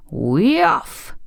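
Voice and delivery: high, swooping magic word; witch's incantation. A narrator's reading. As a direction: cast the spell on a rising swoop.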